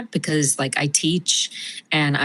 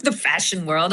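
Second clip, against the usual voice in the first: put-on Pamela's affected accent. Actress mocking pretentious fashion women, affected accent. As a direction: laugh into a pretentious society accent. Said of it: "I see how you got the accent going".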